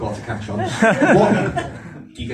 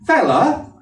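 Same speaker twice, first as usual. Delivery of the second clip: high, louder call of fella; shout; 7 semitones higher, 4 dB louder than usual. Retold or imitated. Imagined sheep calls out to the counting sleeper, a sharp shout. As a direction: yell it across the field. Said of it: "I hear the shout".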